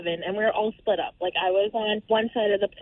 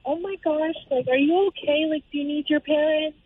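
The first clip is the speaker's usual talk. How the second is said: higher-pitched worried fussing; concerned elderly couple; 8 semitones higher than usual. Retold or imitated. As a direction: imitate anxious, concerned onlookers checking on a child. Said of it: "they were so concerned".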